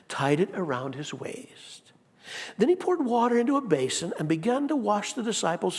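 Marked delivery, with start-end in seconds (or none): 0.1-1.9 hushed detail. Acted. Preacher slowing for dramatic detail.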